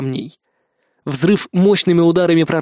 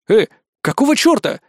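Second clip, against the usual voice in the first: indignant; 6 semitones higher than usual. A narrator's reading. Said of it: "возмутился я".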